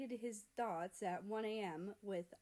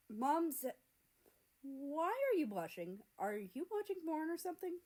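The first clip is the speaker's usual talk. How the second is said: high, louder teasing jab; teasing brother; 7 semitones higher, 4 dB louder than usual. Acted. Canada barges in and teases America, pitched up.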